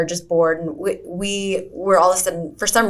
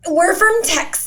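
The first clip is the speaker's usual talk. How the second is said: sheepish; 12 semitones higher than usual. Retold or imitated. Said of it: "And I just go".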